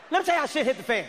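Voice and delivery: "Let me tell you" launched high, falling away; high-pitched announcement. Shown as a demonstration. Announces story, high first take.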